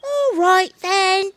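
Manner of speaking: slow, drawn-out monkey voice; lazy sly monkey. Acted. Monkey character speaks.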